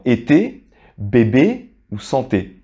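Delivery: été, bébé, santé said slowly with a clear closed é; slow model reading of été, bébé, santé; closed é sound. Shown as a demonstration. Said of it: "celui-ci va se prononcer de la manière suivante".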